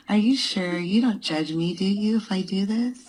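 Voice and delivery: voice changer. Pretend. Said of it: "this is Winnie with a voice changer".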